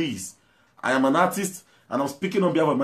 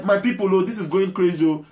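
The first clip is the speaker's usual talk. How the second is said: mock agitator; 4 semitones higher than usual. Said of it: "talk in a normal way".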